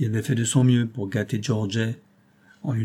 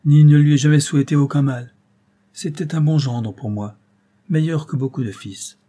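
put-on old man's outcry; 3 semitones higher, 5 dB louder than usual. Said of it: "s'écria le vieillard".

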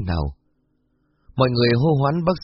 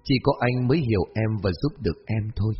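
lightly voiced gentle young man. Departing young man asking Hoa's trust, gently understated.

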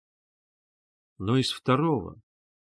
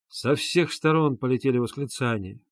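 plain reading voice

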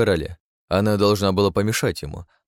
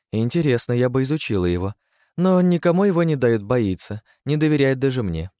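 higher, playful woman's voice; sly female keeper; 5 semitones higher than usual. Acted. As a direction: tease the council.

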